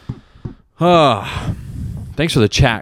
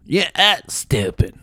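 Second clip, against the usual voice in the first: deadpan retry; 6 semitones higher, 3 dB quieter, slower than usual. Shown as a demonstration. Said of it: "I burped on that fucking punchline".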